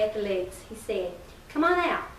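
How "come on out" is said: calling out. Acted. Calling to man under truck.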